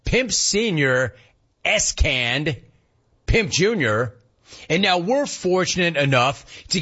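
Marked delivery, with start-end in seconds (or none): 0.0-2.6 slow. Real, not acted. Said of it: "You mean my dad?".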